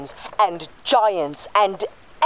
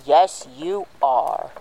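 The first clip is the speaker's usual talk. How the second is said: put-on talking to a baby; slower than usual. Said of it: "You're saying that like I'm not".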